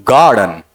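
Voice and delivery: गार्डन with a strong, long गार and a falling, light second syllable; trochaic stress. Shown as a demonstration. Teacher demonstrates a trochee, गार्डन stressed on the first syllable. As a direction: hit गार, let डन drop. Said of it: "stressed followed by unstressed".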